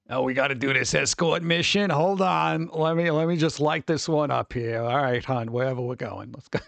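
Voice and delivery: lightly voiced chain-smoking waitress; a hint of an old diner waitress. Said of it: "sounds like an old diner waitress".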